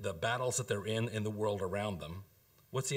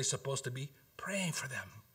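hushed; 4 dB quieter than usual. Real, not acted. Intimate aside in sermon.

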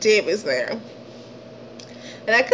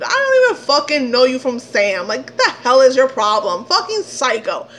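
louder, exasperated rant; outraged rant; 2 semitones higher, 4 dB louder than usual. Real, not acted. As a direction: rant at his nerve. Venting anger at the stranger.

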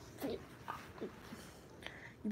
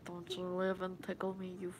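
put-on Brooklyn accent; 5 semitones lower, 11 dB quieter than usual. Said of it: "Brooklyn accent?".

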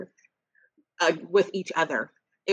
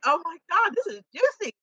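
high, delighted gasp of gossip; gleeful excitement; 10 semitones higher than usual. Retold or imitated. Telling a friend how she loved the couple's fight, much higher and thrilled. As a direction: savor the drama like a juicy secret.

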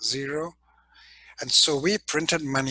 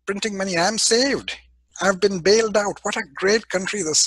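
gloating hedge fund owner; 4 semitones higher than usual. Retold or imitated. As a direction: crow about being bailed out. Hedge fund owner laughing, quoted.

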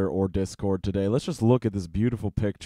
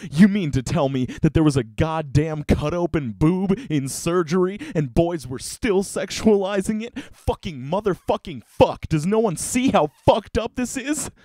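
outraged rant; 6 semitones higher than usual. Real, not acted. Ranting about boys in class.

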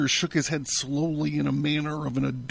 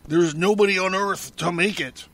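high, insistent denial, getting louder; note of terror; 5 semitones higher, 4 dB louder than usual. A narrator's reading. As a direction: refuse to believe it, voice raised in dread. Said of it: "startled by its note of peculiar terror".

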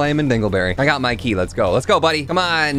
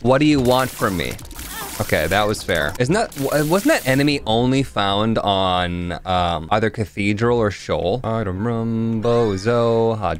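imitating Jillian. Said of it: "Jillian's just like".

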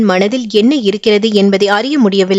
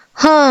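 a sleepy drawn-out yawn; 7 semitones higher than usual. A narrator's reading. Sudha yawns as she lies down to sleep, sleepy yawn. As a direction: yawn it out before lying down. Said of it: "கொட்டாவி விட்டுக்கொண்டே".

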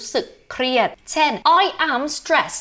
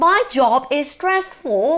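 "My" leads, "stressful" falls at the end; slow example read; 3 semitones higher, much slower than usual. Shown as a demonstration. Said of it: "เช่น".

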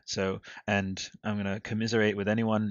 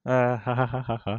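fake laugh; 3 semitones higher, 3 dB louder than usual. Laughing at own pun.

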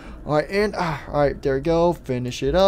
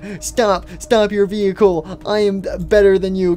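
indignant order; 3 semitones higher, 4 dB louder than usual. Acted. Rival orders racer to stop.

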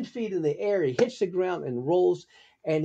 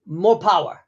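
Sammo Hung; 4 semitones higher, 5 dB louder than usual. Retold or imitated. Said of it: "looks at me and says".

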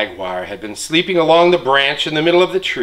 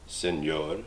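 lower, drawn-out sloth voice; a slow sloth finally speaking up; deep lazy sloth; 7 semitones lower, 11 dB quieter, slower than usual. Acted. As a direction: drawl it like a sleepy sloth. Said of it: "she spoke in her deep and lazy voice".

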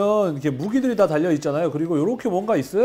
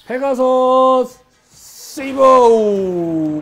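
slow, drawn-out hero shout, much higher and louder; hero name shout; 9 semitones higher, 13 dB louder, much slower than usual. Pretend. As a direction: belt out the robot's name like an anime hero. Toy completion, hero name call. (애니 주인공처럼 길게 외치기)

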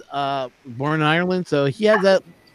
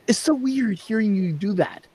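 imitated female listeners; 4 semitones higher, 4 dB quieter than usual.

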